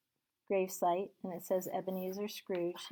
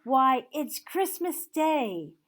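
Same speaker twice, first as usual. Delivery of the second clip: put-on higher, loud young boy; boy's voice; 5 semitones higher, 7 dB louder, slower than usual. Boy in Sunday clothes answering Scrooge, high childlike. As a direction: answer as a surprised street boy. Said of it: "replied the boy".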